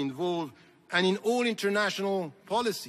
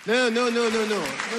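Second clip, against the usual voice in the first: loud, higher rapid no no no; firm no's; 4 semitones higher, 4 dB louder, faster than usual. Real, not acted. Speaker stopping the crowd's applause with loud insistent no's. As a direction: cut the applause off firmly. Stops the audience clapping.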